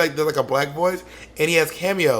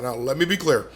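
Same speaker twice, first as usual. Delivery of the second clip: measured and deliberate like Obama; Obama impression; 2 semitones lower than usual. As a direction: let me be clear as a president. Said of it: "to quote Obama".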